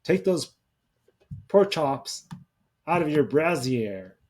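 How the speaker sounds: hint of a comic French-accent character; Pierre Escargot. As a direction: lightly imitate a silly French bather, broken by pauses. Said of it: "Pierre Escargot as Kenan".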